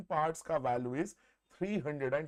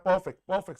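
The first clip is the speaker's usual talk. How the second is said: excited praise; 2 semitones higher, 10 dB louder than usual. Real, not acted. Teacher praising a student's answer.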